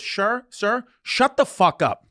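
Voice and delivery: blunt retort, cracking up as it comes out; laughing, retelling the attendant's snap; laughing through a quote. Retold or imitated. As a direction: deliver the put-down while laughing. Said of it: "she finally goes".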